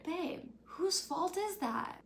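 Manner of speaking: high, slow incredulous retort; exasperated. Real, not acted. Vlogger scolding Lorelai over her outfit, high exasperated. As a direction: scold her like a friend who messed up. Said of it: "scolding Lorelai".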